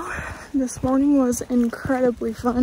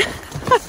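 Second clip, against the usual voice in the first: laughing; 12 semitones higher than usual. Real, not acted. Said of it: "I'm sorry".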